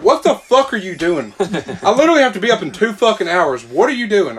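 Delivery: hammed-up angry mom; imitating angry mom. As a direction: play the woken-up mother, half laughing. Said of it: "and she's like".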